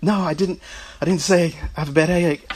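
laughing protest. Retold or imitated. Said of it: "I'm trying to catch my breath".

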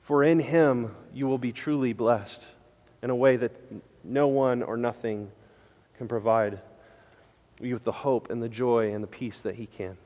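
hushed, earnest plea, voice dropped low; quiet heartfelt appeal; soft pleading. Real, not acted. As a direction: plead gently with the congregation. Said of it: "I'm pleading with you this morning".

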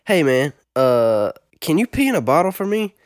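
lightly put-on slurred street accent, rising into the question; imitation of classmate's accent. Druggy classmate asking a favour in the hallway, imitated accent. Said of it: "doing my best imitation of his accent".

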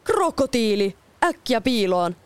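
Captain Hook warning his men as the crocodile comes; frightened yelp. Acted. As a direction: yelp it in sudden fear of the crocodile. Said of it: "kapteeni parkaisi".

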